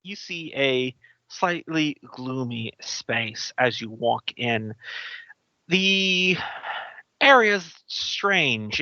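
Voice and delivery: slow, spooky scene setting; GM scene narration. Acted. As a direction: set a gloomy scene slowly. Game master scene setting.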